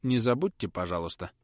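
a hint of a flustered genteel lady; fussy lady. Miss Tox instructing the footman, fussy and polite.

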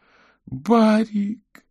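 very high, drawn-out tearful cry; a girl realizing her dog is gone. A narrator's reading. Sobbing girl clings to her dog, long high cry.

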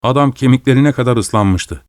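usual speaking voice

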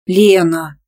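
a wounded whine at her friend; offended drawl. A narrator's reading. Nastya hurt by a joke, offended drawn-out call. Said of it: "обиженно протянула она".

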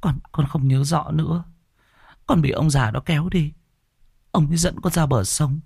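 put-on high girl's voice, dazed and scared; dazed and trembling. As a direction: recount it like a frightened sleepwalker. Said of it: "đờ đẫn run rẩy".

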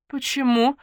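high, loud alarmed question; on the alert; wary. A narrator's reading. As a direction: pounce on it with sudden suspicion. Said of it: "насторожилась Наташка".

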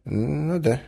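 put-on absent-minded old prince. A narrator's reading. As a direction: agree vaguely, then bid a gallant goodbye. Acts the prince leaving. (рассеянно, затем высоко и галантно прощаясь)

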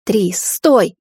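mildly urgent warning; understated cautioning call. A narrator's reading. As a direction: call them to a halt. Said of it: "предостерегла мать мужа".

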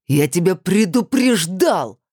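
slow, heavy shout; bellow. A narrator's reading. Kirill shouts at Olya across the rink, slow bellow. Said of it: "гаркнул на весь каток".

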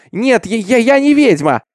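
high, stammering, desperate protest; crying out in denial. A narrator's reading. Girl denies she is a witch, high desperate cry. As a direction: stumble on the words, then cry out. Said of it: "закричала Джиннет".

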